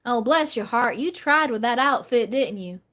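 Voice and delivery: lightly acted Southern lady accent. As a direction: pity them like a Southern lady. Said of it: "that's how they talk".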